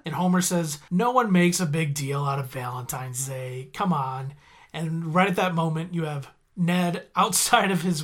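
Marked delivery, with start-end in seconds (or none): 0.9-4.3 casual denial. Retold or imitated. Homer denying, acting casual.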